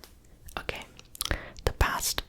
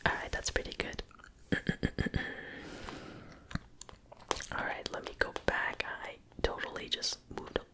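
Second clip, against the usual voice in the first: ASMR whisper; faster than usual. Real, not acted. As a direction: whisper close to the mic, all breath. Whispers every line.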